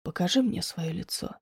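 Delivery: he softly urges Diana to show her face; soft but firm. A narrator's reading. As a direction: coax her gently but firmly. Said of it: "мягко, но с нажимом".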